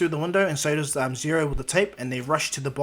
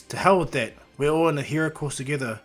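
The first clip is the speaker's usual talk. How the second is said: mildly hammed-up rallying speech; acted team pep talk; 3 dB louder than usual.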